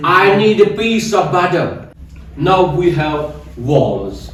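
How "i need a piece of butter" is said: butter said as "budder" in a slow sentence; slowly, with a D in butter; American D for T. Shown as a demonstration. Teacher giving an example sentence, American D-sound butter. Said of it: "ट sound को ड में change".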